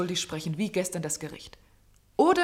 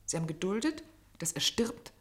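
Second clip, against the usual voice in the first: hushed whisper; 5 dB quieter than usual. Acted. Accusing the doctor in private.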